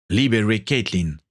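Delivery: plain reading voice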